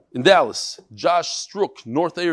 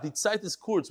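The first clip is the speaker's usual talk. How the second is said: Litvish Yiddish; 3 semitones higher, 7 dB quieter than usual. Retold or imitated. Rabbi reads a martyr's last words to his class, Litvish Yiddish. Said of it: "in the Litvish Yiddish".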